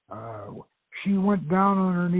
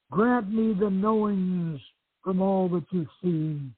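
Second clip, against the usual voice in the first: ritual incantation; 4 semitones higher than usual. Acted. Raising hands to the moon.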